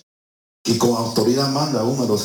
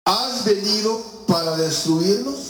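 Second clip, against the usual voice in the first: demon voice; 8 semitones higher than usual. Retold or imitated. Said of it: "él sí sabía quién era".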